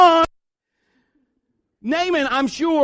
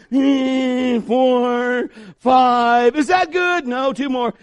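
loud mock counting of dips; 2 semitones higher, 3 dB louder, much slower than usual.

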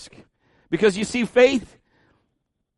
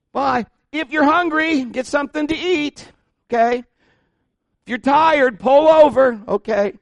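imitating mom; 9 semitones higher, 5 dB louder, slower than usual. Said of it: "my mom would say stuff like".

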